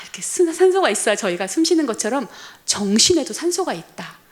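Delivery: ordinary delivery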